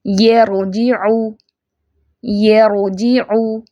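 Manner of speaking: very slow measured recitation; slow tajweed demo. Shown as a demonstration. Teacher models an example of ra, slow recitation. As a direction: draw out each syllable of यरजिउ.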